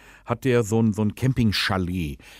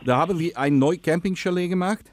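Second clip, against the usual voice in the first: put-on Dutch accent, lisping; 6 semitones higher than usual. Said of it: "rede, lispeln und Holländisch".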